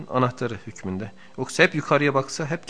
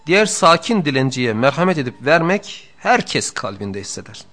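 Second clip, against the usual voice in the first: louder, higher, measured reading of a sacred text; formal text reading; 3 semitones higher, 8 dB louder than usual. Acted. Teacher reading the book to his students, in a raised, formal reading voice. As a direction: recite the passage with weight. Reads the classic text aloud.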